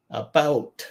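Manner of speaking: "About" with weight on "bout"; light "A", then a stressed "bout" in "About"; stress on second syllable. Shown as a demonstration. Teacher giving an example word, second syllable stressed. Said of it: "we emphasize the second syllable".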